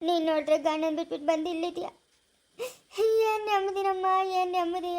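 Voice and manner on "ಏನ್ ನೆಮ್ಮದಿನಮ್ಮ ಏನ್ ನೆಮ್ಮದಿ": higher, slow crying words; tearful lament. Acted. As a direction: weep out the complaint. Grandmother laments daughter's illness.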